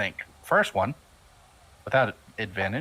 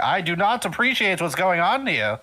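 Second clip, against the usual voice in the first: dopey cartoon bellow; 8 semitones higher than usual. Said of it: "Probably a new ogre voice".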